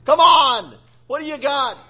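a short goading jab; trash talking. Acted. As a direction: goad them to fight. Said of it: "He was trash talking them".

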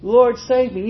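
loud, slow plea to the Lord; a sinking man crying out loud to the Lord. Retold or imitated. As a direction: cry out for rescue, drawn out. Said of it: "cried out".

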